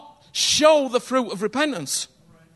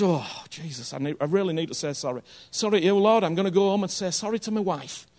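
softer, lower, a hammed-up sorry prayer; mock remorseful prayer; 5 semitones lower, 5 dB quieter, faster than usual. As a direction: mumble a guilty little prayer to Jesus. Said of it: "you just get this".

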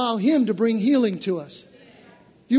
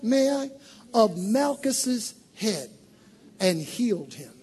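ordinary delivery

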